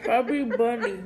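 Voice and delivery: cheeks stuffed full. Real, not acted. Marshmallows stuffed in mouth.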